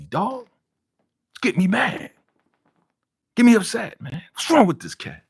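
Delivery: going off. Real, not acted. Viewer going off at Damian's dumb bet, angry and rising. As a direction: scold the character like he's right there, really upset. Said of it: "I know I'm going off".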